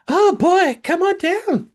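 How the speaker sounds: very high game-show hype; game show host. Pretend. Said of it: "Going to spirit voice there".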